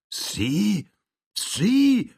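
rising astonishment; astonished. Acted. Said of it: "fragte der Kleine".

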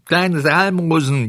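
slow, high beggar's whine; whimpering cat. A narrator's reading. Blind cat echoes the fox's begging, whimpering. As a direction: wail it pitifully after the fox. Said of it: "jammerte die Katze hintendrein".

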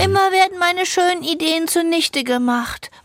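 tearful, whining complaint; whiny crying. Acted. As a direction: sob out the complaint. Plans ruined, whining complaint.

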